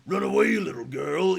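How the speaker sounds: high, loud robotic callout; old speech synthesizer. Retold or imitated. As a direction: imitate an eighties robot voice. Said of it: "nineteen eighties robot voice".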